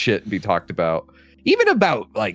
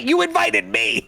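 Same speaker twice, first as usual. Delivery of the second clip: high-pitched laughing protest. Real, not acted. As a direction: laugh the words out. Laughing reply.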